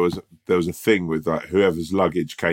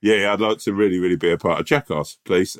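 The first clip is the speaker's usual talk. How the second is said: posh eager schoolboy. Pretend. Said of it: "sound like a public schoolboy".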